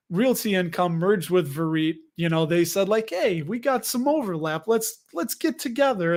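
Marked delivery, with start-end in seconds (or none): 3.1-6.1 lightly voiced, higher-pitched proposal; eager pitch. One company proposing a merger to another, lightly acted eager pitch. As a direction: imitate a chummy business overture in a higher voice.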